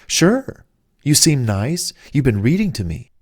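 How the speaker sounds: high, delighted woman saying yes; charmed woman. Retold or imitated. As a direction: gush like a flattered woman agreeing to a date. Woman accepting his date invite.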